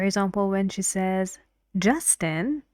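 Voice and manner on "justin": "Justin" with a rising tune at the end; rising intonation. Shown as a demonstration. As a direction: call out "Justin" so the pitch goes up on it. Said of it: "she uses rising intonation".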